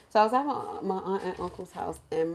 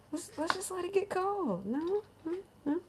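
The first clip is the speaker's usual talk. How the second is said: mock coaxing; 11 semitones higher, 7 dB quieter than usual. Reasoning gently with crying cousins.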